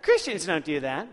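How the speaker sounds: mock judgmental quip; put-on disapproving scold; snarky. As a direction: imitate a snarky younger self. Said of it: "It's just a snarky attitude".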